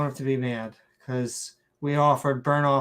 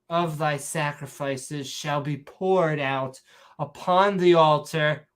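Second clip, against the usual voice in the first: slow mock-solemn Shakespearean reading; mock Shakespearean accent; slower than usual. Reading of sacrifices aloud, slow mock Shakespearean accent. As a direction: intone it slowly in fake Shakespearean. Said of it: "saying it in a Shakespearean accent".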